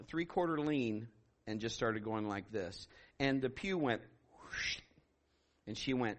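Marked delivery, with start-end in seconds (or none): 4.3-4.8 imitated whoosh. Imitates the pew moving.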